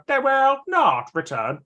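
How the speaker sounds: slow, high robotic Cyberman. Retold or imitated. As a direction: drone it like a Cyberman through a toy echo mic. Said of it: "I would do that impression constantly with the Echo mic and go".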